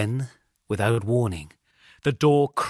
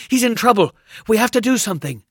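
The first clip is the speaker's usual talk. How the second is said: urgent, louder; 9 semitones higher, 7 dB louder, faster than usual. Acted. Boy repeats, more alarmed.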